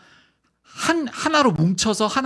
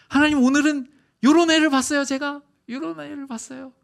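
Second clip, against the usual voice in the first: eager report; 10 semitones higher, 6 dB louder than usual. Acted. Adam excitedly reports to God.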